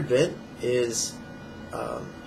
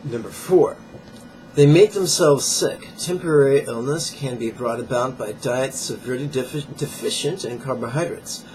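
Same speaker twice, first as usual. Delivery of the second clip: emphatic, slightly raised read-aloud voice; book reading aloud; 5 dB louder than usual. Acted. Fitness teacher reading viewers a page from a diet book, emphatic read-aloud. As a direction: read the page out with firm emphasis on key words.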